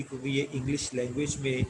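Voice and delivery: ordinary talk, nothing marked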